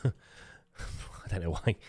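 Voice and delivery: slow, drawn-out, odd laughing voice; silly drawn-out voice. Pretend. YouTuber mocking his own intro, slow silly voice. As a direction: stretch it out in a silly put-on voice. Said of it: "I don't know why we spoke like that".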